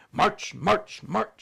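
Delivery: loud military barking; drill-sergeant bark for a child's game; barked command. Acted. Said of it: "she barked".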